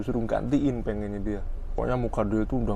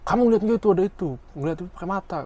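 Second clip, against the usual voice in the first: fast, higher, mock-furious telling-off; mock angry scolding; 8 semitones higher, 4 dB louder, much faster than usual. Angry coworker scolds the narrator for kicking a tool, mock scolding. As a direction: ham up a coworker yelling at a clumsy worker. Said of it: "dia marah-marah ke saya".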